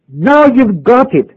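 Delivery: high, slow exclamation, imitating an excited young man; retold excitement. Young man thinks the pastor finally understands, mildly acted excitement. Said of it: "the young man in excitement said".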